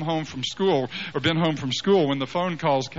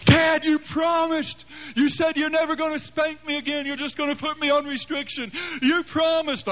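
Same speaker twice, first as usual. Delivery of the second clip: put-on much higher whining kid voice; pleading child; 13 semitones higher than usual. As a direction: beg like a frightened boy. Son Joshua pleading against a spanking.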